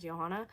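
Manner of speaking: Johanna said as Yo-HAH-na; European pronunciation. Shown as a demonstration. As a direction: say Johanna with a Y sound to start. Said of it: "it's pronounced the European way".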